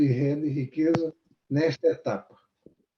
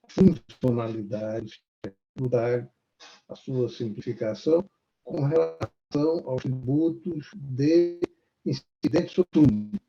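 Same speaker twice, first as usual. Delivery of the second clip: choppy breaking-up audio; buffering stutter. Real, not acted. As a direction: voice cutting in and out. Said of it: "Tá picotando".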